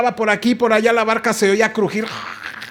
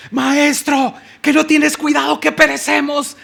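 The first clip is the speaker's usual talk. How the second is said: high, pleading cry from a changed voice; frightened plea; 8 semitones higher than usual. Acted. Disciples begging the master in the imagined storm, high plea. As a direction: wail at the sleeping master. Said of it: "yo me lo imagino así".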